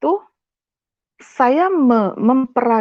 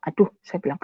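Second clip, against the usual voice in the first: ordinary talk, nothing marked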